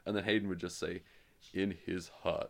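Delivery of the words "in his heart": mock film narration after a pause; trailing film pause. Co-host parodying the film's unfinished lines, mock solemn pause. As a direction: finish the line after a dramatic pause. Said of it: "there's a long pause".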